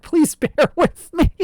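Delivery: slow words through real laughter; laughing. Real, not acted. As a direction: laugh while you apologize. Breaking character laughing.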